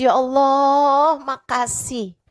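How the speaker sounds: pleading thanks through mild tears; tearful repentance. Acted. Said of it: "terus dia nangis". (sambil menangis pelan, bertaubat)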